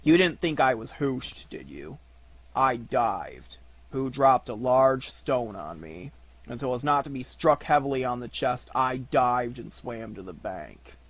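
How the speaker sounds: slow, aggrieved donkey; glum, deliberate grumble; gloomy Eeyore. Acted. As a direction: explain it slowly with wounded dignity.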